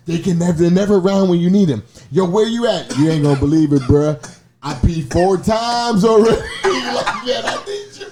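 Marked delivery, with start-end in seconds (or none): 2.1-8.1 frantic call. Retold or imitated. Acted phone call to friends.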